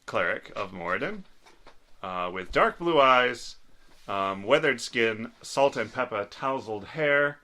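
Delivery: put-on low, creaky old dwarf voice; little old man voice. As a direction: speak as a frail old man. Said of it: "he is doing his little old man voice".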